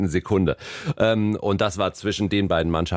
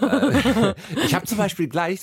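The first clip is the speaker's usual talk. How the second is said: laughing while talking; 10 semitones higher, slower than usual. Real, not acted. Laughs mid-sentence.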